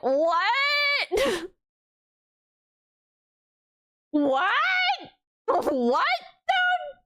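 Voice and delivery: high laughing what; mock shock, laughing; laughing disbelief. Laughing incredulous retort.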